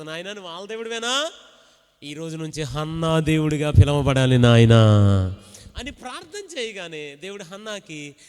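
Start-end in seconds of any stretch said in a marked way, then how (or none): 0.0-5.0 pleading prayer, ending loud; Hannah's pleading prayer. Acted. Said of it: "Hannah ప్రార్థన చేసి ఉండదు". (హన్నాలా దేవునితో వేడుకుంటూ)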